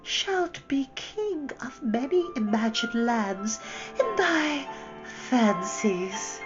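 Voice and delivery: high, slow, drawn-out honeyed lull; a witch soothing him like a child; soothing, humoring. A narrator's reading. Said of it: "in a soothing voice, as if she was humoring a child".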